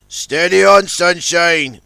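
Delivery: Big Mac calling out to Sunshine on the river; firm call across the water. Acted. Tugboat calls to his partner, firmly. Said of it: "called Big Mac".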